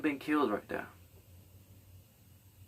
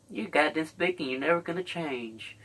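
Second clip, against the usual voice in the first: higher put-on bigot voice; racist sneer; 4 semitones higher than usual. Acting a racist again.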